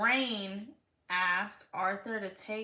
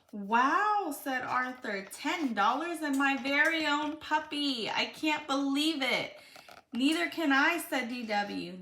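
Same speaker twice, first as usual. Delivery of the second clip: put-on reading a picture book aloud to a child; lively read-aloud for a little one; storybook reading.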